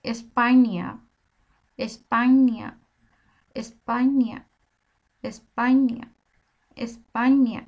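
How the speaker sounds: এসপাইনিয়া said slowly with ny sound, falling each time; Spanish pronunciation. Shown as a demonstration. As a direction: drill এসপাইনিয়া clearly, syllable by syllable. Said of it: "আসলে কিন্তু এসপানা না".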